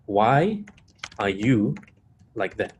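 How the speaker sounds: pauses after WHY and after YOU; separated words. Shown as a demonstration. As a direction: break it up: "Why... are you... like that?", sinking at the end. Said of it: "I give an example".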